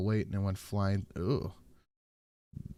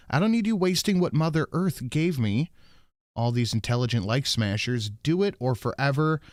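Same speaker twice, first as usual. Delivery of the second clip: mock angry; 4 semitones higher than usual. Resumes acted reading of donor's rant.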